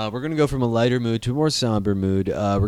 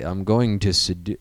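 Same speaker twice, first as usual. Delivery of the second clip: lower, abortive attempt at cool; speaking properly; 4 semitones lower than usual. Shown as a demonstration. Host attempting a smoother seduction line, lower and proper. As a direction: try it cooler, too properly spoken. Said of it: "that's when you speak properly".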